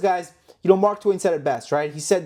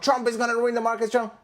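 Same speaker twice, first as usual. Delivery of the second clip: higher-pitched whiny parody; mocking naysayer voice; 6 semitones higher than usual. YouTuber imitates a news guy hating Trump, mocking voice. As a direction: lightly mimic a complaining pundit.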